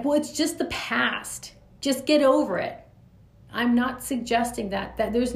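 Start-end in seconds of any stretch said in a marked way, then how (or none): 0.0-2.8 dismissive attitude. Retold or imitated. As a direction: wave the past away like it's nothing. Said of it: "I'm not saying it like that".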